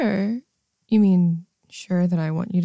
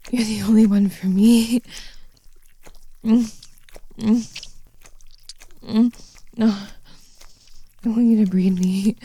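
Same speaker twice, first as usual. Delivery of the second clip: ordinary delivery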